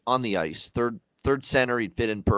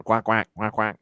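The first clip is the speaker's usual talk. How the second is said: duck quack. Pretend. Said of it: "I'm on the Ducks".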